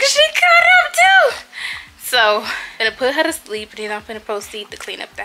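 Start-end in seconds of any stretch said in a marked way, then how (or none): 0.0-1.4 retold disbelief. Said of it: "I'm like".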